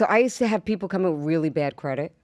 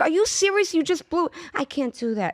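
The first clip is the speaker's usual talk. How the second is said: mock exasperation; 7 semitones higher than usual.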